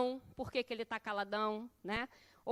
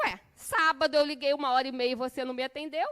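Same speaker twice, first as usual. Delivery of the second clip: mock retort; 7 dB louder, faster than usual. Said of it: "ele tá no direito de dizer assim".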